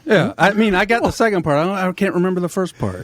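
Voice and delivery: talking through marshmallows; muffled words round a full mouth. Real, not acted. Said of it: "such a good job of it".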